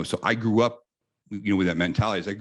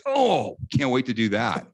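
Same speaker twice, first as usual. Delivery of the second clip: put-on a much higher, eager kid's voice; young boy who can't wait to climb it; 5 semitones higher, slower than usual. A kid gushing to his brother, mock excited and higher. Kids eyeing the obstacle course.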